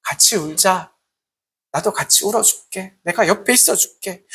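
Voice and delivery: gentle comfort. Retold or imitated. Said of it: "이렇게 말하는 것이 아니라".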